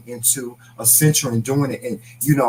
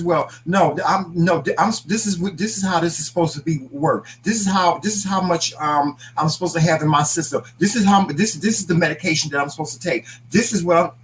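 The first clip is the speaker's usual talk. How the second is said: higher, insistent lecturing voice; know-it-all patient; 5 semitones higher than usual. Retold or imitated. Wife imitates husband telling doctors how his treatment works, insistent. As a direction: mimic him correcting the doctors. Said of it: "He'd be telling the doctors".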